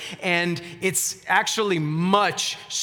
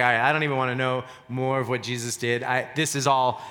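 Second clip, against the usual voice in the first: a lightly voiced dim, lazy Paul, lower and fast; tossed-off mock slacker, a touch lower; preacher mocks a lazy Paul, lightly lowered and fast; 5 semitones lower than usual. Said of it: "just being a little slow and just lazy".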